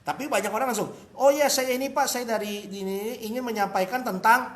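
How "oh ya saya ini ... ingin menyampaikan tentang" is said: loud, eager, straight into the sales pitch; pushy pitch. Shown as a demonstration. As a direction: blurt the offer too soon. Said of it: "nah, jangan gitu".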